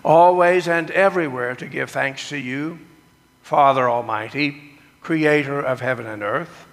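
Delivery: liturgical recitation. Acted. Leads the communion liturgy.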